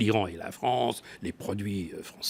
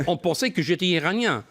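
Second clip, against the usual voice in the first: laughing; 8 semitones higher than usual. Real, not acted. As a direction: let the laugh spill into the words. Amused anecdote about being taken for Iranian.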